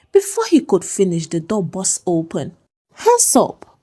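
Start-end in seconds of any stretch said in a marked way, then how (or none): 2.9-3.8 high, loud police command; barked order. A narrator's reading. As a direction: snap it out like an officer bursting in. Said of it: "the policeman ordered".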